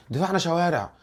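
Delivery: mock indignant fan; fan's complaint. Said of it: "فتلاقي الناس تقول لك إيه؟".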